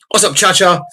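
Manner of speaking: high put-on goofy greeting; silly greeting voice. Joking aside to chat, a high silly voice. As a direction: toss out a goofy character line.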